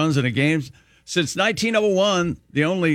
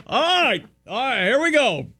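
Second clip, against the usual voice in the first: higher, hammed-up dugout pep talk; a player rallying the dugout, mock excited; mock rally cheer; 7 semitones higher than usual. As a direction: pump up the bench, tongue in cheek.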